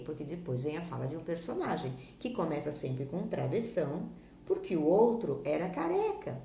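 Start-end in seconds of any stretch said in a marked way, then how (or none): 4.5-6.4 exclaimed punchline, lightly lifted; a touch of exclamation; with gusto. Shown as a demonstration. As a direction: deliver the joke's answer with more gusto. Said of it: "pra ser dita com mais vontade".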